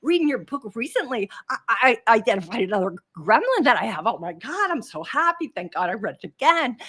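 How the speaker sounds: quick, bright replay of her own eager words, fast; retold excitement. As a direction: gush like you just found a new gremlin. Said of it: "I'm so excited to say".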